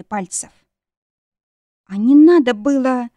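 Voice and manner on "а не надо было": loud, high winded retort; catching breath. A narrator's reading. Wife to bitten husband, winded loud retort. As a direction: throw it back while short of breath. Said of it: "с трудом переведя дыхание".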